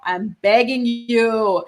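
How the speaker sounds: slow, drawn-out begging, begging stressed; pleading. Real, not acted. Begging a fan not to get pregnant, slow plea. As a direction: plead slowly.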